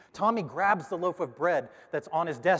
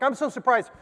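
much higher and louder; amazed teacher; 9 semitones higher, 7 dB louder than usual. Retold or imitated. Teacher telling the parents, high and amazed. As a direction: blurt out the amazement.

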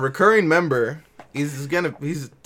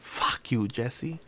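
whispered curse; 4 semitones lower, 7 dB quieter, much slower than usual. Real, not acted. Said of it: "Wait, how loud is that?".

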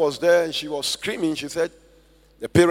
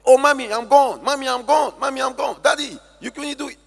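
put-on dying girl's last cry; 9 semitones higher than usual. Dying girl's last high cry to her parents. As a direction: cry out like a child slipping away. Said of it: "But right there".

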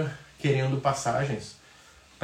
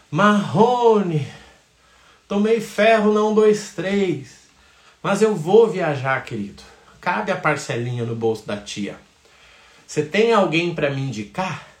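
higher and louder, brash client; tia animada; 4 semitones higher, 5 dB louder, slower than usual. Retold or imitated. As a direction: call out loudly to Marrone. Tia cliente pedindo indicação. (tia animada chamando o Marrone)

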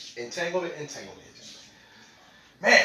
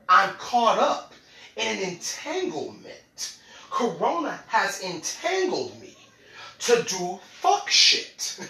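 twenty twenty talking; slower than usual. Retold or imitated. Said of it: "this is twenty twenty talking".

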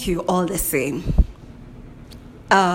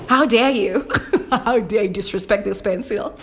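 playful how-dare-you, half laughing; mock outrage. Defending her pencil against a listener, mock outraged. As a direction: pretend offence, grinning through it.

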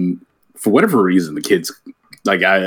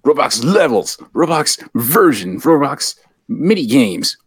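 excited hype; 4 semitones higher than usual. Pretend. Host hyping Roblox to kids.

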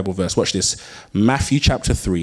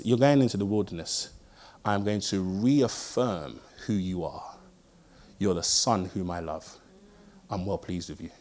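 quiet voice of God; 2 semitones lower, 5 dB quieter than usual. Retold or imitated. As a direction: speak it gently like a loving father. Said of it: "He says".

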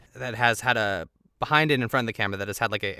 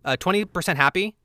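mock director asking for emotion; 5 semitones higher than usual. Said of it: "this is how the director would ask for emotion".

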